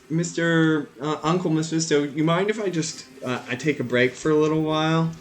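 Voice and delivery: put-on little girl. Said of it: "she looks back and she says".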